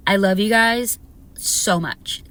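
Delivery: ordinary talk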